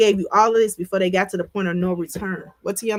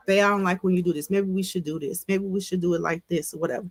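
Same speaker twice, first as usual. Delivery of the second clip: soft and coaxing, trailing quieter; gentle coddling; 3 dB quieter than usual. Retold or imitated. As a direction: talk like you're soothing a partner. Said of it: "coddle me in the conversation".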